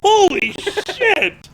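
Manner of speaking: high, slow gasp of disbelief; holy shit, stretched out in shock; shocked exclamation. Real, not acted. Shocked by the Bible joke.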